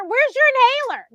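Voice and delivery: high, loud retold demand; imitating someone frantic to help; hammed-up urgent question; panicked. Retells John's panicked question.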